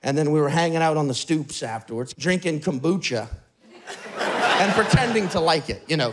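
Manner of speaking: ordinary talk, nothing marked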